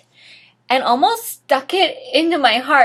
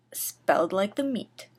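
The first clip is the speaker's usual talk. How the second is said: quick unvoiced aside; whispered aside; 3 semitones lower, 8 dB quieter than usual. Real, not acted. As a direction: lean in and whisper the note. Dry aside about spelling.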